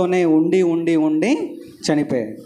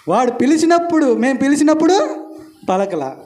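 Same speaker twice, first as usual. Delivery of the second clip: preaching emphasis; 9 semitones higher, 4 dB louder than usual. Real, not acted. Preacher builds his point.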